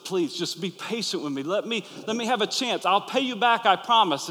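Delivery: retold servant begging for time; pleading servant. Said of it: "He fell down in front of him".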